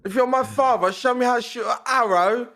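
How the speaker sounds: put-on high, pleading boy voice; young Atreus voice. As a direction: plead like a lost kid. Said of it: "Tom Holland as Atreus".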